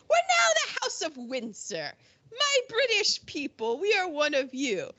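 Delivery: high-pitched mock royal announcement; royal proclamation. Royals reassuring the British people after renaming, mock proclamation. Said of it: "and they're like".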